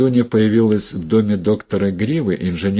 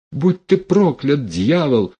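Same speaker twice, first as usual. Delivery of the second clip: high-pitched, anguished curse; high outcry of helpless rage; outraged curse; 6 semitones higher than usual. A narrator's reading. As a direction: curse him from a raised pitch, falling away. Heroine curses the prophet.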